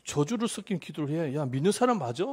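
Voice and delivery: mild mock reproach; imitated scolding. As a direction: act out a disapproving telling-off of a believer. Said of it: "하나님이 그렇게 지적을 안 하십니다".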